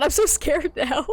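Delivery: giggling fake scared; laughing mock fear.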